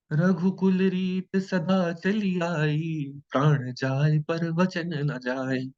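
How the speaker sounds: slow, measured recitation of a couplet; recited verse. Shown as a demonstration. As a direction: recite it like a revered line. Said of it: "recites famous verse slowly".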